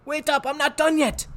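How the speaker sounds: high, loud holler. Acted. Rictus hollering after Harvey to wait, loud high call. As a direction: call after him to stop. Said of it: "he hollered".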